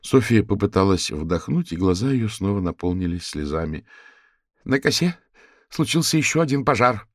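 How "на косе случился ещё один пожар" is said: sobbing. Acted. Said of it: "всхлипывая на каждом слове".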